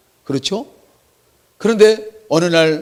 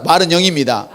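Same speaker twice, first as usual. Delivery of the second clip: call and response; 3 semitones higher, 5 dB louder than usual. Shown as a demonstration. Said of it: "한번 따라".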